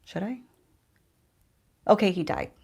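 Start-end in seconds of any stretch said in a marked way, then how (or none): 0.0-0.4 soft, whispered question; hushed, drawing out the suspense; teasing whisper. Real, not acted. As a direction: whisper it to tease the listeners.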